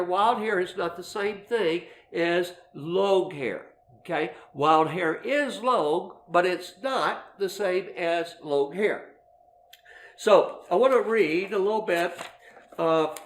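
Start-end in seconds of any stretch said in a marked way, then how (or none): 0.0-3.7 slow, deliberate, each word weighed; careful emphasis. Shown as a demonstration. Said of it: "let's make this clear". 4.5-9.1 slowly, stressing "is" and "long"; slow clarification. Shown as a demonstration. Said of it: "let's make this clear".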